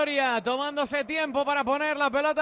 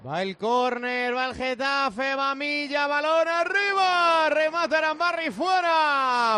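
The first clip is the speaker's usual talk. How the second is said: building radio commentary to a shout; play-by-play; 2 semitones higher, 3 dB louder, slower than usual. Acted. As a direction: call the corner live, rising. Live play-by-play of a corner.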